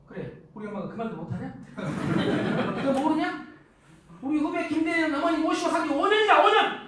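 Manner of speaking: acted indignant comeback, building to a shout; riled-up husband. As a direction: start contained, then explode at your wife. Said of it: "우리는 바로 열받습니다".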